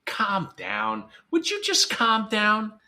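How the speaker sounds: hammed-up impatient "Would you just calm down?"; exasperated calm down. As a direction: snap "calm down" at them, losing patience. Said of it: "My favorite is".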